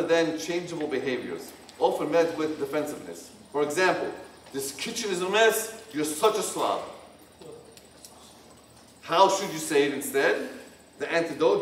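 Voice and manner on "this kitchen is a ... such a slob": harsh criticism. Shown as a demonstration. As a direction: scold your partner harshly about the kitchen. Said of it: "harsh, blaming, or hurtful expressions".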